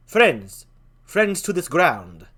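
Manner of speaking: Horatio voice. Acted. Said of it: "I'll talk like that".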